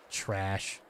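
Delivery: low, quiet, dismissive; disgusted mutter. Real, not acted. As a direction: spit out under the breath. Annoyed at the target sweeper.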